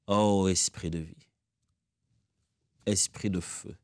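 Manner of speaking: earnest spoken prayer to the Spirit. Acted. Pastor leads the church in prayer, earnest and steady. Prions ensemble.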